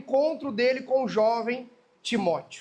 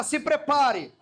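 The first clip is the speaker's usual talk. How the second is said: prophet voice; 2 semitones higher, slower than usual. Shown as a demonstration. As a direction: warn like an Old Testament prophet. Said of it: "fala com voz de profeta".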